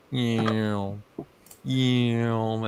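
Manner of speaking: drawn-out 'yeow' zooming by; zoom-by sound effect, twice; imitated passing-cart noise. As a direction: mimic a cart whizzing past. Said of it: "they saw, like".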